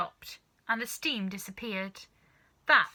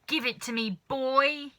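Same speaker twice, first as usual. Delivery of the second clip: yelling; 5 semitones higher, 4 dB louder than usual. Acted. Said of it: "yelled Grandma".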